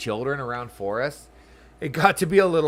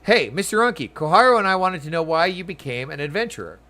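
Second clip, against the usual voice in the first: put-on eager child; 4 semitones higher, 4 dB louder than usual. Voices a child NPC.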